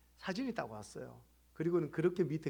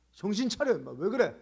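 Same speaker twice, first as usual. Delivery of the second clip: raised, higher scolding voice; retold scolding; 5 semitones higher, 8 dB louder than usual. Pastor scolding a cursing caller, sharply retold. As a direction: snap at them to pull themselves together.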